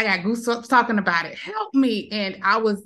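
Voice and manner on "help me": frantic cry for help. Retold or imitated. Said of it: "I remember just screaming".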